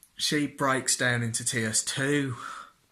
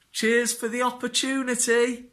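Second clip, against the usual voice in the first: sarcastic thanks; 10 semitones higher, 4 dB louder than usual. Retold or imitated. Sarcastic thanks after being fired.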